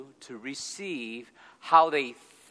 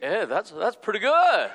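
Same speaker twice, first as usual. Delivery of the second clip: laughing; 6 semitones higher, 5 dB louder than usual. Retold or imitated. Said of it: "I'm thinking".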